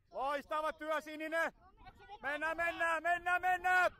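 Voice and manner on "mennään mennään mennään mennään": rising, louder shout to push players on; urging shout. Real, not acted. Coach urges the team to go, urgent shout. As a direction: drive the team forward, getting louder.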